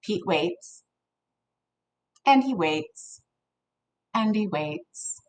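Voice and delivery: soft, slow suspenseful pause; hushed suspense. Acted. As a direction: trail off quietly while waiting. Suspenseful waiting.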